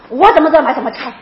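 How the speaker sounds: mildly angry retort, a burst of volume at the start; retold snapping. Upset speaker retelling how they told off a companion, irritated. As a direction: imitate an irritated brush-off. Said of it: "我就凶他了".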